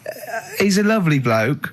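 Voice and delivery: lightly voiced friend pleading; imitating Johnny. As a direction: coax Carl like a soothing mate. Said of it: "And Johnny went".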